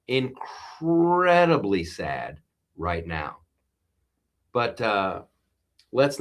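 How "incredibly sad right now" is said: slow, somber repeat; sad. Real, not acted. Host slowly repeats his grief over the Reiner news. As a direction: let the sadness sink in.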